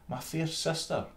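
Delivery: high, sweetly condescending mouse voice; town mouse. Acted. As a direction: begin a polite refusal. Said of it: "quoth she".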